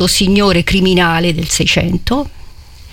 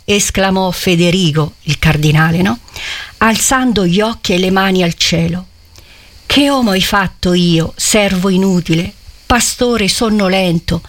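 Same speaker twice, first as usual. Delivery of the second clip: literary reading. A narrator's reading. Preacher reading Manzoni's scene aloud, solemn. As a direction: read the passage with gravity to the congregation.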